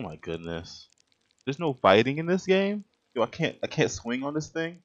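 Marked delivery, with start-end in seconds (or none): 1.4-4.8 incredulous. Real, not acted. Outraged at no combat.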